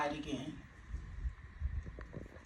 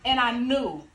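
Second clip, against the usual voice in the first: triumphant testimony; 3 semitones higher, 4 dB louder than usual. Acted. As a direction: proclaim joyful news to a congregation. Risen Jesus proclaimed in monologue.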